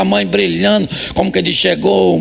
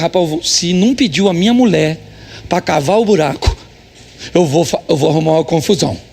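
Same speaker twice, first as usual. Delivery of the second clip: lightly voiced inner grumble; 4 semitones lower than usual.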